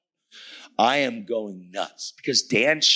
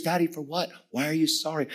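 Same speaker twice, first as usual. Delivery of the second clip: put-on high, innocent child voice; young daughter; 7 semitones higher than usual. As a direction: imitate a puzzled little girl.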